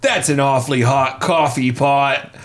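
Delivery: slow, drawn-out rapper voice; a hint of a famous rapper, slow; impression of a rapper. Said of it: "the one that everyone knows".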